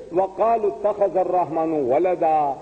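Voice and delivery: rapid Arabic Quran recital; Quranic recitation. Acted. Preacher quoting the verse to the audience, quick recitation.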